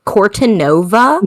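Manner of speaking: slow American take on the Italian name; American accent. Shown as a demonstration. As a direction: stretch Cortanova in an American accent, questioning. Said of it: "I sounded so American there".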